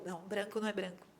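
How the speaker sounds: low, quick "branco não é branco"; "não" set flat and quiet against the quote; dry correction of "Branco é branco"; firm correction. Real, not acted. Correcting the naive claim.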